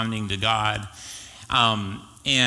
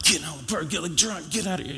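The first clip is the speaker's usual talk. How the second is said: higher, sing-song mock of the wife; lightly voiced wife shooing him off; 8 semitones higher than usual. Pastor imitating the wife telling her husband to leave, sing-song. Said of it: "his wife's like".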